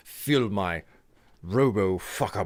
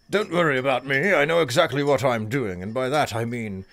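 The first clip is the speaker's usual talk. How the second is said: put-on wandering British accent; 2 semitones higher than usual. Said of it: "I have zero control over exactly where this voice is going".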